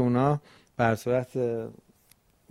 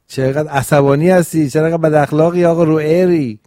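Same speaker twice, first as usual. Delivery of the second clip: louder, quick teasing scold; mock scolding call; 2 semitones higher, 6 dB louder than usual. Host teasing a silent Zoom guest, playfully loud scolding. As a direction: tease him loudly as if he's sulking.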